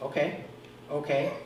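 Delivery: soft, muttered okays to himself; calm yourself under your breath; quiet self-soothing. Retold or imitated. Pastor retelling calming himself before witnessing, soft okays. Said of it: "outside I'll be going".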